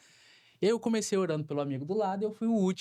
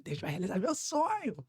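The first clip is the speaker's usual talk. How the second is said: joyful; 7 semitones higher than usual. Retold or imitated. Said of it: "E eu todo alegre".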